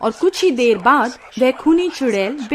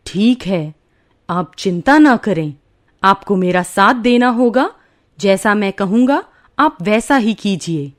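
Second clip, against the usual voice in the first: a lower, steady sage's voice; calm holy man; 4 semitones lower than usual. Acted. Holy man promising the worried parents help, calm and low. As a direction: reassure the parents as a wise old holy man.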